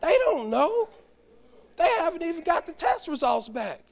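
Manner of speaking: elder's rebuke. Retold or imitated. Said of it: "Pare said".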